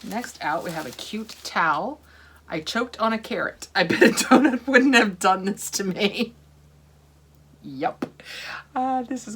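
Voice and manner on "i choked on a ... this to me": loud, higher, hammed-up complaint; mock outraged slogan reading. Reading a towel's joke about a carrot to viewers, mock outrage. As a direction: read it out with big comic outrage.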